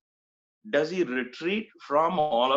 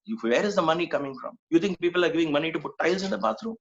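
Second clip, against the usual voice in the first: retold anger; 3 semitones higher, faster than usual. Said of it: "And Swami was very angry".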